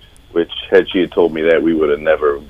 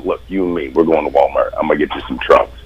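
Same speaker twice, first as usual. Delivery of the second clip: mild fatherly; 4 semitones lower, 5 dB quieter, faster than usual. Retold or imitated. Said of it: "felt like grabbing him and going".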